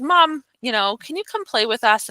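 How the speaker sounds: a hint of a child asking Mom to play; pleading young daughter. Voicing six-year-old daughter asking mom.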